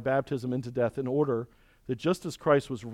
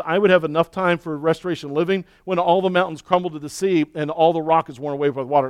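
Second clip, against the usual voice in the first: voicing Job; 7 dB louder than usual. Preacher voices Job's despair.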